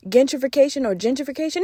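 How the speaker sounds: testing gentrification against gentrification, front then back of the throat; two ways of gentrification. Shown as a demonstration. Comparing her two gentrifications, asking viewers which is right. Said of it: "Am I saying it the same way both times?".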